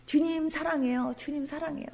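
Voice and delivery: very soft, hushed devotion; tender worship. Pretend. Worshipper telling the Lord their love in praise, hushed. Modelling words said while praising.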